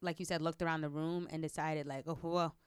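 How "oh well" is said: mock boast. Mocking her boastful attitude.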